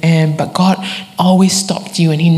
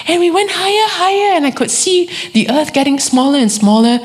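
auntie's wondering voice, pitched much higher; awed auntie recalling her dream, pitched well up; voicing the auntie; 11 semitones higher than usual. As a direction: lift into her awed, rising storyteller voice. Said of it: "And she's like".

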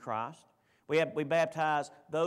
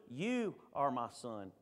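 "You" held long, slow and softer; stress on YOU; 4 semitones lower, 4 dB quieter, slower than usual. Retold or imitated. Preacher quoting Luke's Gospel to the congregation, stress on "You". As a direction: set "You" apart with a slow, weighty stretch. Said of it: "You go to the Gospel of Luke".

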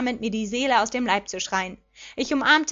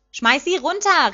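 loud, slow, raised cheer; hoarse shout; 5 semitones higher, 5 dB louder, slower than usual. A narrator's reading. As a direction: egg the player on from the stands. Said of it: "rief James heiser".

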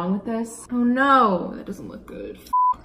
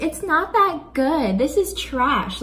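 higher, drawn-out imitation of a falsely modest classmate; mock self-deprecation; 6 semitones higher than usual. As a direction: mimic someone fishing for compliments, slowly. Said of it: "whenever she gets compliments, she's like".

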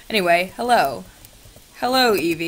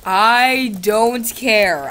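dismissive; 2 semitones higher, 5 dB louder, much slower than usual. Acted. Dismissive drawn out.

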